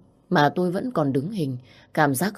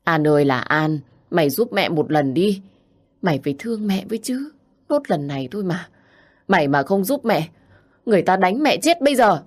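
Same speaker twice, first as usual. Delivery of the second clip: mock-tearful pleading, rising louder; crying and begging; 4 semitones higher, 4 dB louder than usual. Mother kneeling, begging daughter An, mild crying. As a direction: beg her through tears. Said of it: "Bà vừa khóc vừa van xin".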